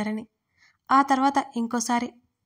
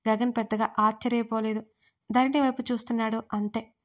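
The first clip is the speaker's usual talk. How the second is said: ordinary delivery, nothing marked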